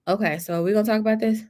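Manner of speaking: quick hushed aside; quick whispered aside to the viewers. Real, not acted. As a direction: drop to a whisper, fast.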